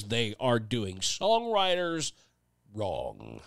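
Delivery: mock pompous radio host sneering at the crusade; Rush Limbaugh impression. Mocking songwriters who cancel Spotify, in a mild Rush Limbaugh impression. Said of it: "That was my Rush Limbaugh impersonation".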